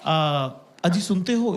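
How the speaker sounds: sweet call. Retold or imitated. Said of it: "इतने प्यार से बोला".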